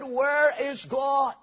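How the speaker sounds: slow, stern preacher's demand; sterner tone. Acted. Preacher repeating his question to a silent boy, slow and stern. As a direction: press the question firmly, word by word. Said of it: "in a sterner tone".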